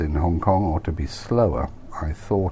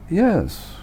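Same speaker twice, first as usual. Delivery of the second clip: surprised Nigel; 12 semitones higher than usual. Acted.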